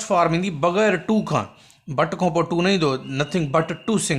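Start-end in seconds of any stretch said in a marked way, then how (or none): 3.0-4.2 slow dictation of the wrong form; teacher slowly showing the wrong form; wrong version, slowed. Shown as a demonstration. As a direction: say the mistake slowly so they hear it. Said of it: "न, न।".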